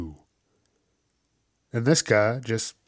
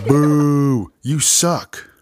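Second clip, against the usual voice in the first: put-on loud drunk heckling; 3 semitones higher, 5 dB louder, much slower than usual. Heckler booing again.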